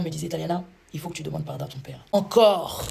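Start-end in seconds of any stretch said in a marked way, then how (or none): 2.1-2.8 higher, louder outraged disbelief; indignant again. Retold or imitated. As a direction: protest as if asked too much. Told to apologise to father again.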